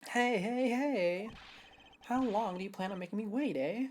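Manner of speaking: impatient shout for attention. Acted. Voicing gruff male character.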